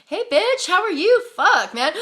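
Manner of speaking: loud, high, playful mock hello; mock cheery greeting. Greeting a glaring woman across the street, loud and cheeky. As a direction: call out a brash, teasing greeting.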